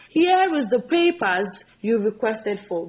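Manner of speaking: slow, careful wrong sentence; slow demo of a mistake; slow wrong example. Shown as a demonstration. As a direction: lay out the error slowly. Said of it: "Very wrong".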